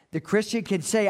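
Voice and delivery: ordinary talk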